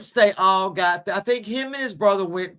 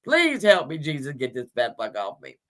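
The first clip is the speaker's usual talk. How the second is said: begging horse; 4 semitones lower than usual. Retold or imitated. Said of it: "that horse is begging for everything".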